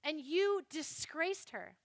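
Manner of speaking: slow, emphatic mock indignation; acted outrage, drawn out slowly; furious brother. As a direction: accuse with measured, weighty words. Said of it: "Absalom is furious".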